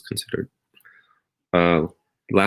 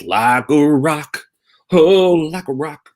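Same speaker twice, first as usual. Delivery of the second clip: straining, much higher, slow mock groan; mock strained constipation; 9 semitones higher, 4 dB louder, much slower than usual. Pretend friend begging for a laxative, higher strained whine. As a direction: ham up the pain of being blocked.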